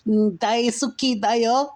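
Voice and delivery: very high, eerie, drawn-out creature voice; eerie demon voice. Acted. Dark lord calling to sleeping Frank, very high eerie voice. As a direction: call like an otherworldly dark lord.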